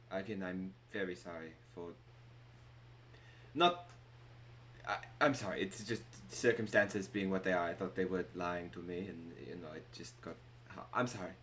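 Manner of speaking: subdued, regretful barkeep; apologetic innkeeper. Acted. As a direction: stumble contritely through an excuse. Game master as remorseful innkeeper.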